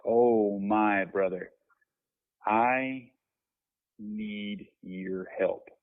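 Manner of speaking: mildly voicing a friend's tearful plea. Friend in tears asking him for help, mild tearful imitation. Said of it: "starts crying".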